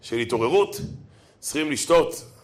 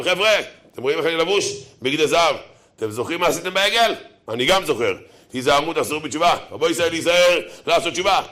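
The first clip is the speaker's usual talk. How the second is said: raised voice scolding the crowd; stern rebuke. Retold or imitated. Priest rebuking the people.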